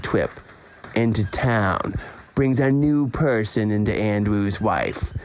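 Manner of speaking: slow, measured reading aloud; book blurb read. Acted. Host reads friend's back cover to listeners, slow blurb read. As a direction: read it out slowly, phrase by phrase.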